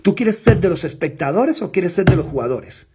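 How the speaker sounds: loud challenge. Retold or imitated. Challenging prospect Juan.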